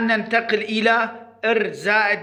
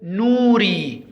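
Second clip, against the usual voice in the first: نوري slow but joined up, vowels long; slow model word; slower than usual. Shown as a demonstration. Teacher naming the pictured person, نوري slow and joined. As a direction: say نوري slowly as one word. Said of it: "ما اسمه؟".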